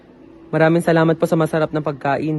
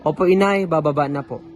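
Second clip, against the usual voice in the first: calling out. Acted. Calling down to mother.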